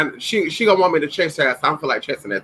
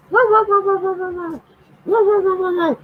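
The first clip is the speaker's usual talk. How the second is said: high soothing whoa. Real, not acted. Calming the excited dogs.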